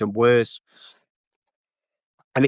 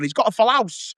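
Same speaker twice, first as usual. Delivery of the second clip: Jeremy Kyle impression; 8 semitones higher than usual. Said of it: "Jeremy Kyle would have come out and gone".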